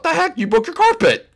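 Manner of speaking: half-yelled reproach; exasperated yelling. Acted. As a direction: scold dad with a rising pitch at the end. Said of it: "stop yelling at me".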